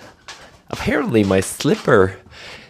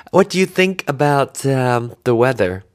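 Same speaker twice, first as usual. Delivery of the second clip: much higher, louder reporter voice; mock street reporter; 13 semitones higher, 8 dB louder than usual. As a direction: ham up a street reporter interview. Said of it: "I can go out there and say".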